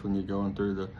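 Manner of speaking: flat monotone sales pitch. Shown as a demonstration. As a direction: say it all on one note. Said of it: "Do you sound like this".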